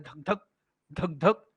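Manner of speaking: धक धक in short, separate paired beats; heartbeat imitation. Shown as a demonstration. Teacher imitating the heart's sound, heartbeat rhythm on धक धक. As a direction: thump out धक धक softly, with a pause between pairs. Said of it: "जैसे हृदय आपका बोलता रहता है".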